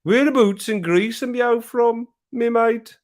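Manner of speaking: put-on high-pitched, drawn-out Black Country accent. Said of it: "in my black country accent".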